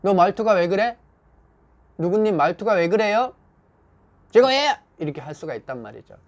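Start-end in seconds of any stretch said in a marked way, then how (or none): 0.0-3.3 mildly scolding, raised pitch and volume; reproche. Acted. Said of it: "말투가 곱지 않을 경우에". 4.3-4.8 loud, high-pitched defiant comeback; grumbling retort. Acted. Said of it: "직원이 힘들거나 툴툴거릴 때".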